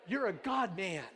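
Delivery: lightly imitated Persian accent. Pastor re-enacting his new neighbor, imitated Persian accent. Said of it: "had just this real thick accent".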